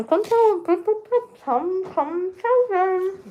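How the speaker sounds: high, eager call to come over. Real, not acted. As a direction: call someone in from across the room. Calling dog owner over.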